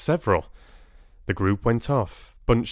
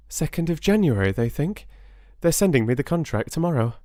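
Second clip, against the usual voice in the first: happy; 7 semitones higher, faster than usual. Acted. Bella answers happily.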